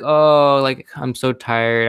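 drawn-out groaning imitation of tired students; mock weary. Students excusing themselves from work until morning, mock weary.

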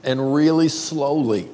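slowed-down teaching delivery; measured and unhurried; slow, deliberate. Shown as a demonstration. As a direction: spell it out slowly for the room. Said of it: "you have to say it with two syllables and really slowly".

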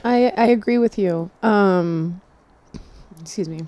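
out of breath after the gym. Real, not acted. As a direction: still catching your breath. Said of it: "I'm still, like, catching my breath from the gym".

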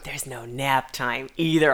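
soft, slow pitying voice; gentle bad news. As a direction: break it gently and slowly. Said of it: "that's me in the corner breaking it to him".

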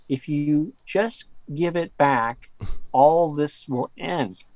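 slow, measured, pausing between phrases; slow quoted warning. Retold or imitated. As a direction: retell a stranger's words slowly and deliberately. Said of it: "like, an ominous way".

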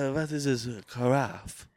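slow hammed-up French voice; French accent. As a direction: ask it like a snooty Frenchman. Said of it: "it's gonna be French".

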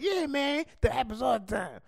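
high, casual drummer voice; laid-back drummer. Retold or imitated. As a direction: toss it off like a drummer. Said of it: "Maybe the drummer's like".

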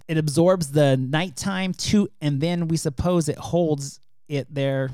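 slow infomercial pitch; drawn-out TV ad read; commercial voice. Shown as a demonstration. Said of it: "That's my commercial voice".

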